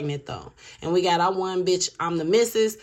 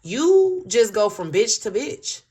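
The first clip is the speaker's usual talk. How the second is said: louder, drawn-out mock accusation; accusing; 3 semitones higher, 5 dB louder, slower than usual. Third party telling off the masculine, slow and accusing. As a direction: slowly call him out, stretching the opening word. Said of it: "They literally said it just like that".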